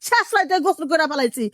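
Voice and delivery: outraged mother-in-law ranting; angry yelling. Acted. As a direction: fire indignant questions at the daughter-in-law. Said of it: "এখন আপনি যেভাবে চিল্লাচিল্লি শুরু করছেন".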